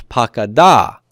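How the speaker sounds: pakada with the accent on final DA; pa-ka-DA, end of pakada stressed; stress on the last syllable. Shown as a demonstration. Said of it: "The accent's gonna slide over to the dalet".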